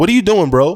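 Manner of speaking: mild yell. Showing how a student gets yelled at: own yell, demonstrated. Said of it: "That's my version of yelling".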